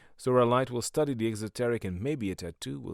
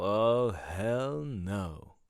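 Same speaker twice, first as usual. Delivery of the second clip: wife's flat refusal; much slower than usual. Retold or imitated. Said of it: "His wife was all".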